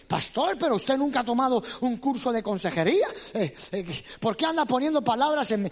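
a mild angry outburst at the pastor; angry man. Acted. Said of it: "estaba enojado".

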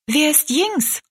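put-on high, animated girl's question; lively curiosity. A narrator's reading. Rosalie asking the woman about Jinx, lively. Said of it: "wurde ganz lebhaft".

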